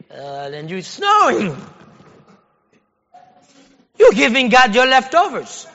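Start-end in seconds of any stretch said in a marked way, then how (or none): 4.0-5.7 louder, hammered home; emphatic repeat. Acted. Preacher rebuking the congregation, loudly repeating the point. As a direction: drive the point in hard the second time.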